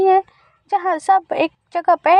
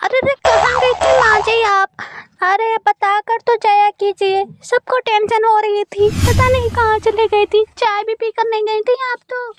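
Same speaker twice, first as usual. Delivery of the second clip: higher, anxious scolding; worried daughter-in-law; 4 semitones higher than usual. Acted. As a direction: fuss over her late return.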